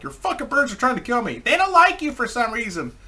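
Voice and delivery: high-pitched acted-out complaint; exaggerated, high retort to a scolding; mock protest. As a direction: protest as if under attack. Retort in quarrel with mad girlfriend.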